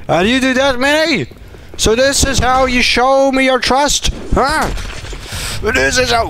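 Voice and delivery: high, hammed-up wounded cries; mock betrayal. Player scolding teammate Manny, hammed-up betrayed outrage. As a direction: overplay the hurt of betrayal.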